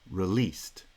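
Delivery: "Released" with the weight on "-leased"; stress on second syllable. Shown as a demonstration. Teacher showing the stress placement in "Released". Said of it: "has stress on the second syllable".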